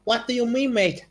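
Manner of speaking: a cheeky Londoner calling someone mate; British accent. Acted. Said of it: "can do a great, good British accent".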